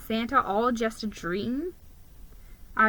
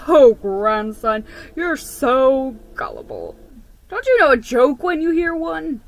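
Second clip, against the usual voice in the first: squeaking grandfather; 3 semitones higher, 8 dB louder than usual. A narrator's reading. Grandfather teases gullible grandson, loud and squeaky. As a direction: tease him about the joke. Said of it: "he squeaked".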